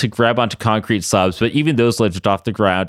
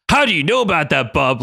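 cried out; 4 semitones higher than usual. Acted. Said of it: "Logan cried out".

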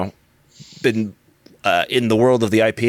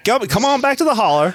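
high hillbilly twang calling out; Appalachian accent; 12 semitones higher than usual. Pretend. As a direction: call them home like an Appalachian storyteller. Mimicking Appalachian podcast voice.

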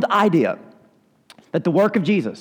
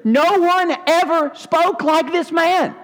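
slow, higher, hushed in wonder; awed officer; 9 semitones higher, slower than usual. Acted. Officers telling the priests about Jesus, slow and awed. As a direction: say it like you can't believe what you heard.

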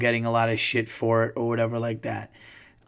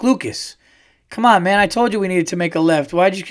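frustrated dad; 6 semitones higher, 4 dB louder than usual. Retold or imitated. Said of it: "And I'm like".

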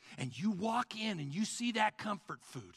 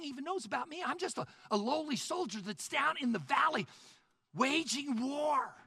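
disbelief; 8 semitones higher than usual. Acted. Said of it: "you think".

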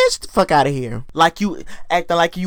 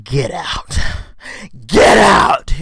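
Jamal yelling; 4 semitones lower, much slower than usual. Retold or imitated. Jamal ordering everybody out of his father's house, shouting. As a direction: throw them out, building to a yell. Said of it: "all of a sudden he says".

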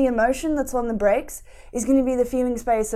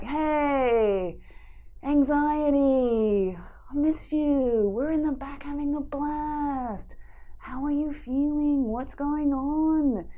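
gentle self-acceptance; much slower than usual. Acted. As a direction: coax a frightened friend to open up, slowly. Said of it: "Self-acceptance comes in and is like".

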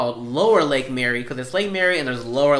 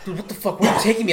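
mock panic; 6 semitones higher, faster than usual. Panicked friend on back roads.

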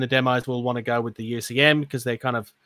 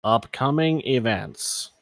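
robot voice; 2 semitones lower, 3 dB quieter, slower than usual. Shown as a demonstration. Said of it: "I was trying to sound like the robot voice".

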